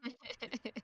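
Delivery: high, loud joyful shout; overjoyed. Acted. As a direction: cheer like a long wait ended. Blacksmith overjoyed.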